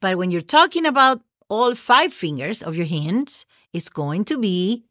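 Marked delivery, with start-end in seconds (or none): none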